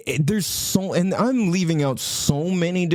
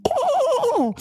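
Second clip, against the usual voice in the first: mock SoCal surfer "Oh!"; SoCal exclamation. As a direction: squeal it like a Southern California valley type. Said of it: "different parts of Southern California".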